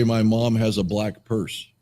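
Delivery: tongue held, words mangled; holding tongue with fingers. Shown as a demonstration. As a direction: speak while gripping your tongue. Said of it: "Or hold your tongue and say".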